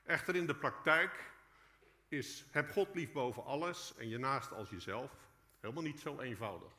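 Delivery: ordinary talk, nothing marked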